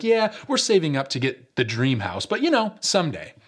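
rising, dreamy someday; light mock of a dreamy homeowner; wistful homeowner. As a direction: sigh toward the dream house.

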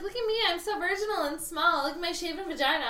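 high-pitched put-on girlish voice; mock pop singer. Mocking a pop singer's innocent act, high girlish voice. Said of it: "No, she's like".

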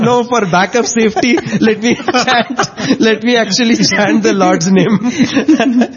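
slow, cautious, giggling; slow laughing caution. Retold or imitated. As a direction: hedge it with a laugh. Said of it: "He said".

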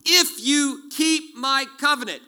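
"If" hit high and loud, slow; stress on if. Real, not acted. Preacher warning congregation, stressing if. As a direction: lean hard on "If" to sound the warning.

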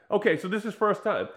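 ordinary talk, nothing marked

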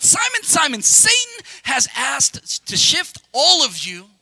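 a hint of a solemn Jesus calling out; solemn Jesus warning. Preacher voicing Jesus' warning.

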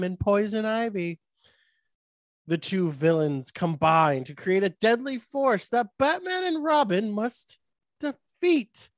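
lightly voiced Batman narrator, rising toward the end; a hint of Batman hosting a dramatic plot read. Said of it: "I like doing the Batman voice".

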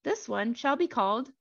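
lightly voiced man reading scripture. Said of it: "I like how it gets higher pitched".

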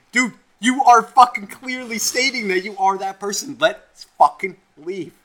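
loud, high exasperated rant; acted-out shouted exasperation; exasperated retort. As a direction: plead loudly with a stubborn friend, slowing on the last words. Exasperated argument with friend, retold.

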